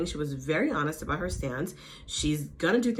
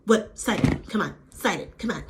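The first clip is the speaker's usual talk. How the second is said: baiting. Retold or imitated. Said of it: "baiting her".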